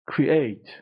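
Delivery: "Create" with the weight on -ATE; cre-ATE, teacher's model of "Create"; stress on second syllable. Shown as a demonstration. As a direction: hit the second half of "Create". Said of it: "استرس رو بخش دومه".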